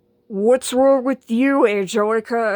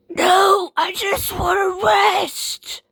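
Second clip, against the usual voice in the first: a higher-pitched, half-crying whine; whiny refusal; 7 semitones higher, slower than usual. Acted. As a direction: whimper it out, too tired to argue. Sick girl refusing music.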